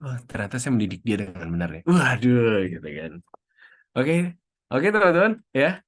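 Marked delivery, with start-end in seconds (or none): 0.0-2.7 proud parent. Retold or imitated. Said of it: "orang tua kita juga akan merasa".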